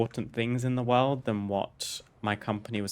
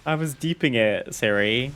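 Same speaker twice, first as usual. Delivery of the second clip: mock exasperation; 2 semitones higher, 6 dB louder than usual. Real, not acted. Scolding Siri, surprised.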